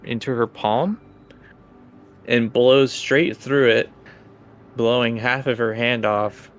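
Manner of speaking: measured, suspenseful scene narration; game master narration. Acted.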